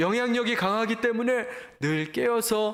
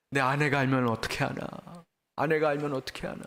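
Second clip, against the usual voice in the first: lower-pitched, mildly worried inner voice; anxious fretting; 5 semitones lower, faster than usual. Acted. Preacher voicing a guilty husband afraid his wife finds out, mildly anxious. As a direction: act out a touch of nervous fretting. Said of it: "항상 조바조바 두려운 거예요".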